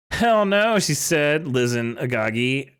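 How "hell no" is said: loud, high "Hell no"; indignant shout. Acted. Character flatly refusing the request, loud mock outrage. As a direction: bark the refusal.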